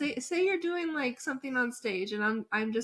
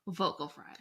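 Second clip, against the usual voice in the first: whispered; 4 semitones lower, 7 dB quieter than usual. Retold or imitated.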